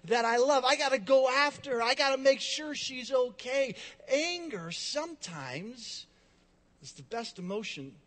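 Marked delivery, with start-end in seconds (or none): 0.1-3.7 higher, louder, driven inner voice; adrenaline-fuelled urgency; urgent. Retold or imitated. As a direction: rush it like someone protecting a loved one. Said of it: "there's this rush".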